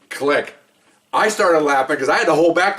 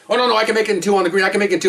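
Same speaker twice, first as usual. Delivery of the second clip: mock overeager partner; 4 semitones higher, much faster than usual. Retelling cocky golf partner's refusal.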